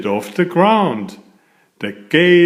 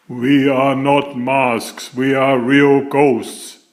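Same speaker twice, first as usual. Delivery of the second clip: a light hint of a slow ghostly voice; lightly voiced ghosts, slow and eerie. Ghosts correct the boy at the door, in a lightly ghostly tone. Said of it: "the king said with their ghostly voices".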